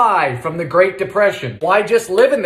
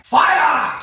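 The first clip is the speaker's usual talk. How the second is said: cheery call; 11 semitones higher than usual. Acted. Calling out as the oven starts.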